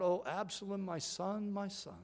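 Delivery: hushed, mildly anguished cry of a father; grieving David. Acted. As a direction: quietly mourn a lost son, understated. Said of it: "David cries out".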